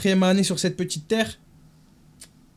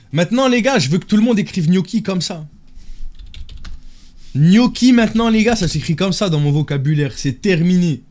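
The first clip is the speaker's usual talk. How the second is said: put-on lightly raised girly voice; man doing a woman's voice. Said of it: "parler avec ma voix de fille".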